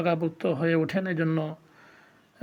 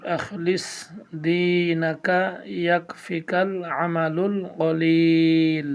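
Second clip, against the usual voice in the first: slow, drawn-out Quranic recitation; recitation reading; much slower than usual. Shown as a demonstration. Teacher reading the hadith to viewers in slow recitation. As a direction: recite it slowly and evenly. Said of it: "তৃতীয়তে reading".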